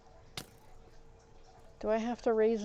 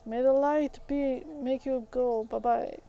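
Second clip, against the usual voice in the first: mock incantation; 3 semitones higher, 6 dB louder than usual. Banishing a game enemy.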